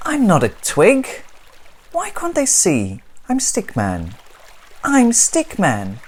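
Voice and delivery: high, loud pleading protest; exasperated little stick figure; frustrated Stickman. Acted. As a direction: insist on who you are.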